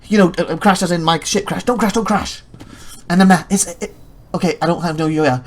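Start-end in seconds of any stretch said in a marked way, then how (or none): 1.6-2.4 higher-pitched urgent begging; acted-out nervous repeating; mock panicked plea. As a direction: plead with the game in pretend panic. Re-enacts pleading with crashing game.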